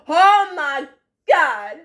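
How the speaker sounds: loud, high burst of delight; excited exclaim. Real, not acted. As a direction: cry out in real glee. Laughing at a remembered scene.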